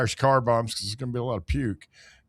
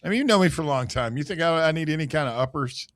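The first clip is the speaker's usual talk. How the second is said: talking through a yawn; sleepy, yawning as you speak; 3 semitones higher than usual. Real, not acted. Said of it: "you're yawning into the microphone".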